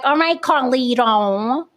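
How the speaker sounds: drawn-out fake Puerto Rican accent; mock an off-the-mark Puerto Rican accent, slowly; bad Puerto Rican accent. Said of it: "The accent was off".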